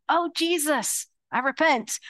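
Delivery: a hint of a humbled confession; mock repentance. Pastor retelling her prayer to Jesus, lightly humbled.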